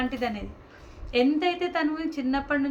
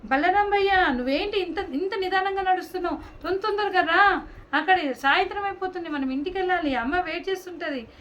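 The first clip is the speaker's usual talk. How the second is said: calling to brother; 4 semitones higher than usual. Acted. (తమ్ముడు అన్నను త్వరపడమని పిలవడం)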